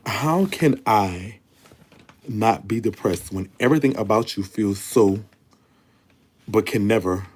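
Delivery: a very slow, drawn-out read of her own words; slow letter reading. Acted. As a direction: stretch each word as you read. Reads her own letter line.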